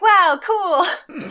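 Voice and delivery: high, loud and amazed; awestruck kid. Acted. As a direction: gasp it out like a wide-eyed kid. Voicing awestruck young Nico.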